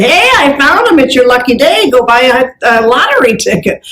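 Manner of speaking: lightly acted cheerful announcement, lifting at the start; upbeat good news. Salesclerk telling customer the shoes turned up, upbeat.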